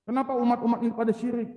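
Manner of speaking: angry Musa. Retold or imitated. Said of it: "Nabi Musa kalau marah".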